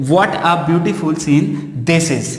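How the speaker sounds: what a beautiful scene this is धीरे पढ़ो; सही वाक्य धीरे-धीरे दोहराओ; slow answer. Shown as a demonstration. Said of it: "तो यहाँ पे". (सही उत्तर धीमी गति से)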